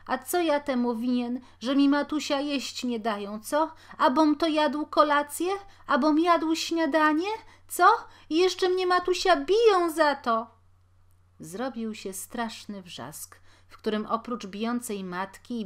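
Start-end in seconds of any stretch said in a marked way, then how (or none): 0.1-10.5 loud, high, wailing complaint; sobbing protest. A narrator's reading. Beaten boy wailing at his mother: loud, high sobbing protest. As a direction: cry it out, rising higher. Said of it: "zanosząc się od płaczu mówił".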